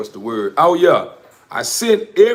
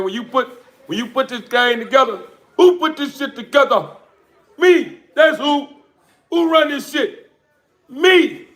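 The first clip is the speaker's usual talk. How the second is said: higher, laughing proud brag; proud boasting; 8 semitones higher than usual. Real, not acted. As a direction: crow about it with a laugh. Boasting about his breeding.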